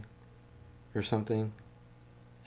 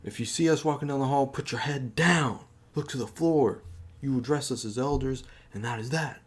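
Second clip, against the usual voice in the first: mock stern seniors; 4 semitones higher than usual. Quoting seniors' rules.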